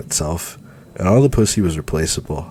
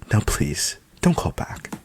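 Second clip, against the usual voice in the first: patronizing; 4 semitones higher than usual. Acted. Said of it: "making every word sound patronizing".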